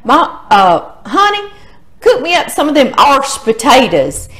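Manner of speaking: mock country accent, honey pitched high; grandpa's country accent. Papa calling to grandmother to cook, in country accent. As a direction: imitate an old-time country way of talking. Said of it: "that's just his country accent".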